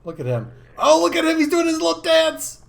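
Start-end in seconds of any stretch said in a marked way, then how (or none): 0.8-1.4 much higher and louder, thrilled; delighted squeal. Real, not acted. Gushing to viewers over the dancing mob, excited squeal. Mob doing a little dance. 1.4-2.6 much higher and louder, thrilled; delighted squeal. Real, not acted. Gushing to viewers over the dancing mob, excited squeal. Mob doing a little dance.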